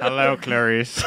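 slow, drawn-out movie-villain greeting; Silence of the Lambs villain. Acted. Guest greeting Clarice as the film's villain, slow imitation. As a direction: imitate a creepy film killer, very slowly. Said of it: "from Silence of the Lambs".

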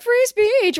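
high-pitched mocking quote; sarcastic impression of indignant people. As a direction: mimic them with exaggerated, sing-out sarcasm. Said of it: "Do you hear the sarcasm?".

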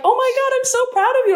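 very high, fast, crying mom; high, quick, tearful mom voice; mom's teary joy. Retold or imitated. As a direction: gush it like a sobbing proud mother. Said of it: "she's like".

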